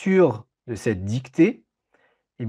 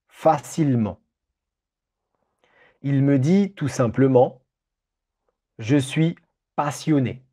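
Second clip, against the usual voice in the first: dictating. Shown as a demonstration. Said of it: "je vais répéter l'ensemble de la dictée".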